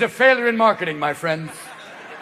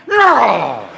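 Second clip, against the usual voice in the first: shouted denial; 8 semitones higher than usual. Acted. Steroid user Bubba yelling his denial. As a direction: yell the denial. Bubba denies horse genome.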